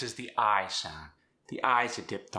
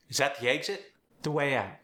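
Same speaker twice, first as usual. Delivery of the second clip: South African accent; 4 semitones higher than usual. Shown as a demonstration. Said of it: "your South African accent".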